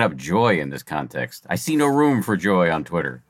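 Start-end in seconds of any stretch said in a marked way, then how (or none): 1.5-3.2 dry sarcastic remark; deadpan sarcasm about Twitter. Pretend. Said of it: "I'm being sarcastic".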